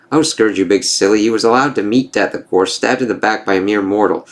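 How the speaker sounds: a hint of a scornful sorceress; mildly acted mocking enchantress; lightly voiced bitter enchantress. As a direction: taunt him as the wronged enchantress.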